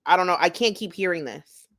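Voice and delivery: talking mid-sip; words around a drink. Real, not acted. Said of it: "I'm drinking".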